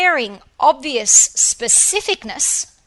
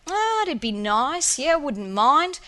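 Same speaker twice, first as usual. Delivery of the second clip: slow, lazy, shrugging "wouldn't mind"; a weak, lukewarm preference, drawn out slowly; half-hearted wish; 2 semitones higher, slower than usual. Shown as a demonstration. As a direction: sound like you couldn't care less. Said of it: "or you prefer it".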